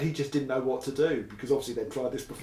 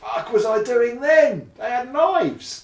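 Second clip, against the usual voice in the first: retold panicked disbelief; 12 semitones higher, 8 dB louder, slower than usual. Retells realising his danger after mugging.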